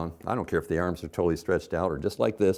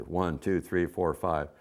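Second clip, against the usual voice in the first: fast count; 2 semitones lower, slower than usual. Shown as a demonstration. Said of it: "You count faster".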